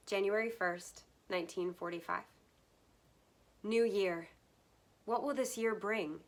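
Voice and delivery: heartfelt reading of a wartime diary entry. Acted. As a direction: read it as a father's words to his son. Reads diary entry aloud.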